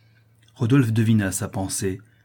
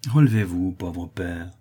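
kindly; 3 semitones lower, slower than usual. Acted. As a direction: raise up a broken man tenderly. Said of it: "reprit Rodolphe avec bonté".

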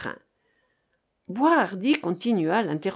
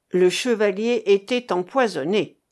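"Le chevalier était empoisonné" hit hard and loud; strongly emphatic; 5 dB louder than usual. A narrator's reading. Sailor confronting the lying captive, "empoisonné" strongly emphasized. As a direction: drive home each beat of "était empoisonné". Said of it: "accentua fortement Marcof".

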